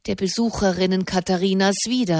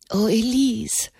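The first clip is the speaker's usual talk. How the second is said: wailing; 2 semitones higher than usual. A narrator's reading. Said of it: "jammerte Blanchefleur".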